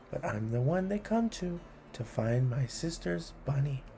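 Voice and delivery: brisk rhythmic listing; poem reading. A narrator's reading. Host reading a list poem to kids, brisk and rhythmic. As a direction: tick off each item with relish.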